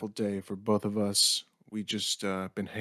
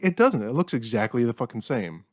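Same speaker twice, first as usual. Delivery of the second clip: exasperated outburst; 2 semitones higher, 3 dB louder than usual. Retold or imitated. Son telling his dad the TV looks the same, exasperated. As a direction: blurt it out in disbelief. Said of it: "I'm like".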